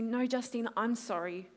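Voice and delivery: a parent's tender apology, retold; gentle apology. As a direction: quietly apologize to your child. Dad's gentle apology, acted.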